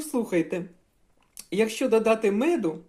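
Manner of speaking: ordinary talk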